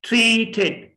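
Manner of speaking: ट्रीटेड with T puffed like ठ; two-syllable ट्रीटेड with aspirated Ts. Shown as a demonstration. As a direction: say ट्रीटेड, breathing out on each T. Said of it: "ट का ठ बन गया".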